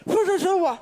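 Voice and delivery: loud, high stern mother; angry order. Retold or imitated. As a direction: bark the order at her kid. Mother ordering child inside.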